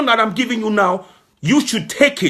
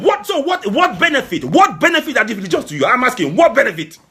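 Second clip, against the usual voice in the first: raised, heated voice, pitch climbing higher; angry shouting; 4 semitones higher than usual. Real, not acted. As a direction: demand it angrily, voice rising. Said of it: "I'm sorry I'm shouting".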